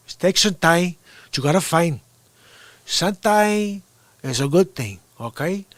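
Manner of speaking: put-on squeaky kid doing Tony Montana; high-voiced Scarface impression. Retelling his teen Scarface impression before his voice broke, high and squeaky. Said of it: "great Scarface impression 'cause my voice hadn't dropped yet".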